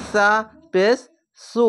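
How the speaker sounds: সু with tongue tip slightly out; lisped s. Shown as a demonstration. Quran teacher showing pupils, tongue-tip সু. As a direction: say সু with the tongue just between the teeth. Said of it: "হালকা জিহ্বা বের করে".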